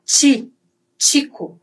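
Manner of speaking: "ti" said as chee, then "Chico" with tch; Spanish CH. Shown as a demonstration. Teacher recaps CH, tch in "Chico". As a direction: start both "ti" and "Chico" with tch. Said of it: "o C H".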